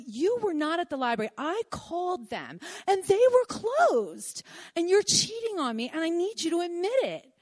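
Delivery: corner him, demanding he admit it; accusing confrontation. Retold or imitated. Accusing cheating boyfriend.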